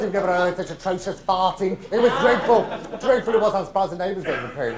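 usual speaking voice

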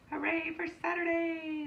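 a big happy hooray; cheering. A narrator's reading. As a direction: shout it out in joy. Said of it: "they cheered".

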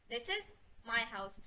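soft, slow, my set apart after a pause; stress on my. Shown as a demonstration. Teacher recapping the second version, stress on my. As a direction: pause after "is", then place "my" separately, low and slow. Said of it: "different versions में explain कर सकते हैं".

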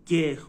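گ with a hard g, not English "jee"; Turkish letter G. Shown as a demonstration.

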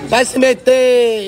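loud, drawn-out rebuke; scolding shout. Real, not acted. Housemate tells off someone butting into a row, scolding shout. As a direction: shout it slowly at someone meddling.

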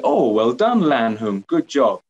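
praise. Shown as a demonstration.

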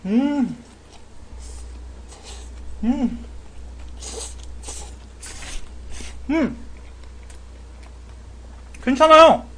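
chewing while speaking; muffled through food; mouth full of noodles. Real, not acted. Seen 2: slurps noodles, then chews with cheeks puffed full throughout.

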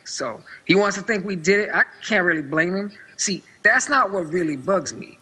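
Hayner's line redone in an African-American voice; same line, African-American voice. Acted. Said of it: "the African-American voice and do that again".

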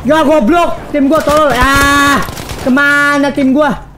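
real gamer frustration at teammates; frustrated rant. Real, not acted. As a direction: vent at the team, exasperated. Raging at his teammates mid-game.

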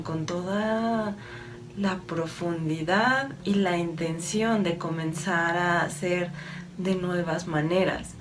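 calm, slightly softened meditative delivery; channeled message. Acted. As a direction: deliver it evenly, as an unhurried spiritual message. (mensaje canalizado, en tono sereno y pausado)

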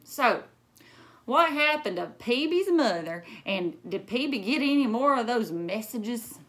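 put-on old man voice. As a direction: ask like a curious grandpa. Grandfather asks eagerly.

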